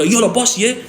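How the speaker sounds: high-pitched call-out at moderate volume; retold yell. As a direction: re-enact yelling to get the boss's attention. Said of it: "as soon as I started yelling".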